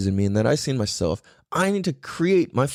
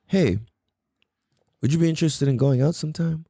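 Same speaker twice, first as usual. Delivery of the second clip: relaxed and sure of yourself; calm and confident. Shown as a demonstration. Guy asking his crush out after breathing, calm. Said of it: "just listen to the tone".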